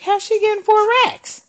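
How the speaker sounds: high, stunned disbelief; incredulous. Retold or imitated. Seeing a woman on food stamps, asking in high disbelief. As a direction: ask it in pure disbelief. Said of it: "I was like".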